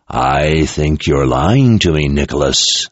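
slow, low growl. Acted. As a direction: growl the accusation through the soldier. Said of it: "the voice growled".

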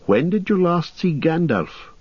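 put-on high, eager young hobbit. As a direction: ask it quickly, anxious. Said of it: "asked Frodo".

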